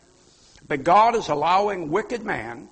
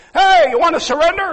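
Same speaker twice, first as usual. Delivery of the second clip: higher, louder taunting call across the water; mock yell; 7 semitones higher, 8 dB louder than usual. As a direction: shout it like an enemy captain.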